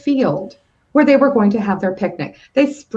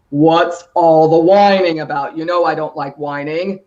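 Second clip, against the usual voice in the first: papa mouse; 7 semitones lower, 4 dB louder than usual. Acted. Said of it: "Papa Mouse walks into the room".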